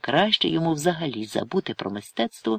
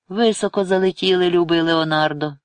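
raised, louder menacing hiss; 6 semitones higher, 5 dB louder than usual. A narrator's reading. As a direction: hiss it as a mocking threat. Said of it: "просичав Горб".

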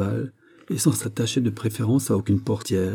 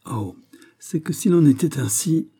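higher-pitched forceful outburst; singular force; 7 semitones higher than usual. A narrator's reading. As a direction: exclaim with sudden passion. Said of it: "avec une force singulière". (exclamation pleine de force)

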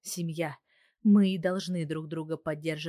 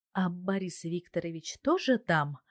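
ordinary delivery

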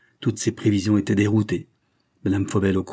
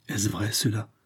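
soft, muted question; a mildly hushed demand; muffled voice; 5 dB quieter than usual. A narrator's reading. Niece confronting her aunt over the theft, muffled voice. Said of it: "d'une voix sourde".

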